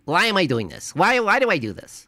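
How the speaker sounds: high, whining voice asking why, over and over; mock the pastor's whimpering self-doubt, pitch climbing high; whiny mock pleading. Streamer mocking the pastor's doubts in a high whiny voice.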